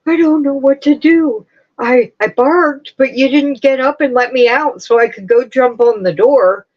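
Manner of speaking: a hint of a confused pup pleading; voicing the dog. Owner voicing her dog's confusion about the door, mildly whiny. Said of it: "that one is up there going".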